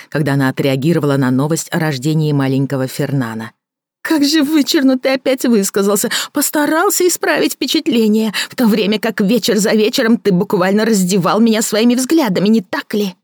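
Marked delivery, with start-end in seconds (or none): 4.0-13.1 a bitter woman mocking her lover; Victoria mocking. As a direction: sneer at his fancy words.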